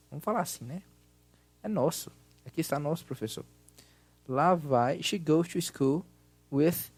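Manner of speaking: loud, projected teacher voice; class lesson voice. Acted. Teacher runs a recorded grammar exercise, loud and projected.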